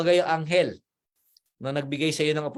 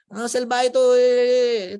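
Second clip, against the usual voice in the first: high, louder outburst; angry mutter; 9 semitones higher, 7 dB louder, much slower than usual. Retold or imitated. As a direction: blurt out the insult. Angry voice about Juan. (galit na pabulalas)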